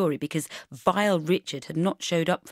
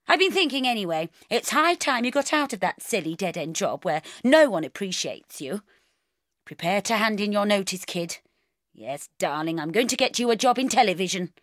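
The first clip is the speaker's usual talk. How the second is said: louder, breezy no-nonsense mum; brisk bossy mother; 3 semitones higher, 4 dB louder than usual. Acted. Mother on the phone rallying her daughter, bossy and brisk. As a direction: sweep her daughter's tears aside briskly. Mum again, making plans.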